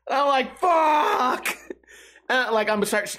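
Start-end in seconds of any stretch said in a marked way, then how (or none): 0.6-1.5 high crying yell of pain; pained scream. Retold or imitated. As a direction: cry out as the hand burns. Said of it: "I start screaming".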